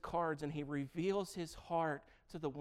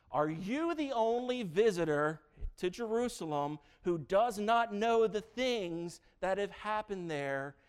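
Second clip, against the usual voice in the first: incredulous question; 3 semitones higher, 6 dB louder than usual. Acted. Cleopas incredulous to Jesus.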